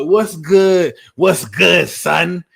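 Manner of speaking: imitation American street slang accent; rough stab at an American accent; attempted American accent. Shown as a demonstration. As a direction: throw out American street greetings, badly faked. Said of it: "My American accent isn't really the best".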